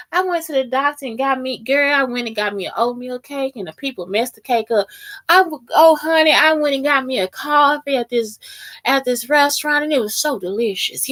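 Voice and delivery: lightly acted chatty stranger; oversharing Texan stranger. Texan stranger answers "how you doing", mock chattiness. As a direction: imitate someone telling everything. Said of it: "they really stop and tell your ass".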